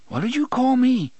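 high, loud indignant question. A narrator's reading. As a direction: demand it, affronted and shrill. Eddie offended outburst.

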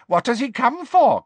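high, muttering house-elf; sly little elf talking to himself. Acted. Kreacher voiced.

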